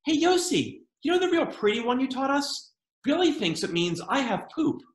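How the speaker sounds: a lightly voiced eager kid asking the counselor; eager kid camper. A kid asks the counselor Yossi about a song, lightly voiced eager child. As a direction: chirp it like a curious camper. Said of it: "camper asking the counselor".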